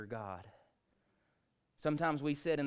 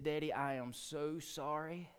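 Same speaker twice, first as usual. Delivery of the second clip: tearful pleading. Retold or imitated. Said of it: "crocodile tears".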